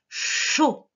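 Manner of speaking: CHAUD with a lengthened CH; dictation sound. Shown as a demonstration. Teacher repeating a syllable for dictation, exaggerated sounds. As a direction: repeat CHAUD with a long hushing start.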